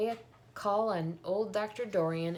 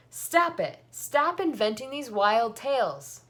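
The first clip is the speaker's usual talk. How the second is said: loud, high angry snap at her daughter; sharp snap; 6 semitones higher, 10 dB louder, slower than usual. A narrator's reading. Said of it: "snapped her mother".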